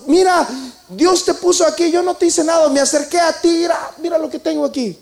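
David calls up to Saul and swears he means him no harm; súplica ferviente al rey; earnest plea to the king. Acted. David shows Saul the cloth.

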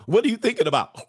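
high-pitched needy female question; put-on girly prodding; prying girlfriend. Acts woman prodding sleepy man.

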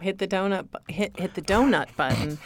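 donut said toh-nut, Michigan style; Michigan accent. Real, not acted. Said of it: "that's my Michigan accent".

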